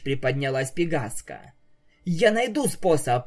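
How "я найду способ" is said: rattled off. Acted. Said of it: "протараторила единорожка".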